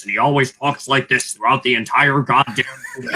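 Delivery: lightly robotic monotone; mock his robotic delivery; imitating Jacob Elordi. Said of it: "doing an impression of Jacob Elordi".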